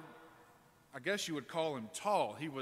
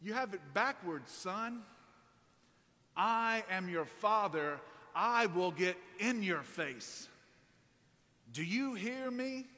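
stern father; 4 semitones higher than usual. Retold or imitated. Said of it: "And he said".

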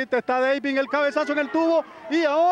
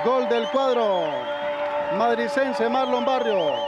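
goal yell; slower than usual. Real, not acted. Equalizer scored, commentator shouts.

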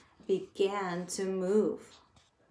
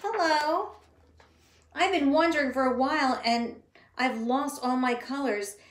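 higher hopeful voice; bright unicorn; 3 semitones higher, 3 dB louder than usual. Acted. Lost unicorn greeting the crayons hopefully. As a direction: brighten up and ask. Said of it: "looked up brightly and said".

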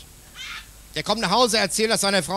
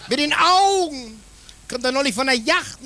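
cracking up at his own joke; laughing; 5 semitones higher than usual. Real, not acted.

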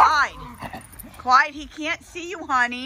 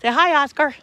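coaxing; 3 semitones higher, 6 dB louder than usual. Real, not acted. Coaxing a pet to greet.

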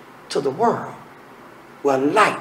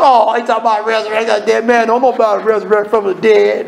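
mocking skeptic; faster than usual. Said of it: "Some mocked".

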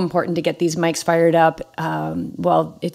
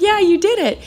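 excited reassurance; 13 semitones higher than usual. Retold or imitated. Friend confirms she finished.

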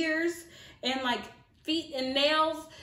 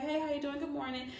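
calm and relaxed; 3 semitones higher, 5 dB quieter than usual. Retold or imitated. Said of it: "just trying to be calm and relaxed".

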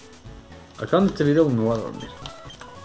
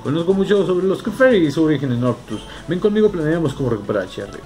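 NPC voice; 5 semitones higher, 3 dB louder than usual. Acted. Voicing NPC scholar.

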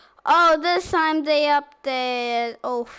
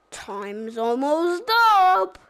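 silly clown; 3 semitones higher, 3 dB louder than usual. Retold or imitated. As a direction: announce it like a goofy cartoon clown. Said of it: "that's my Banana Split voice".

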